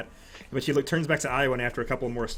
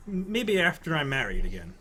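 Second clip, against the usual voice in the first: higher, stammering, nervous laugh; flustered noblewoman; 7 semitones higher than usual. Acted. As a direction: caught off guard, fumbling. GM voices the noblewoman.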